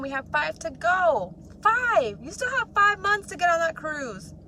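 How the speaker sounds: high, loud, urgent hype; excited. Real, not acted. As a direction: pump them up about the cruise. Excited push for cruise goal.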